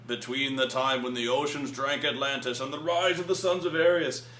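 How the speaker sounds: quoting narration. Retold or imitated. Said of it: "that narration is done by Morgan Freeman".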